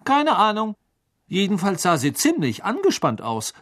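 high-voiced twin; Fred Weasley. A narrator's reading. Fred antwortet den Freunden. (hoch und lebhaft)

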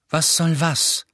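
unimpressed cool retort. A narrator's reading. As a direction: answer coolly, giving nothing away. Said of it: "sagte Harry kühl".

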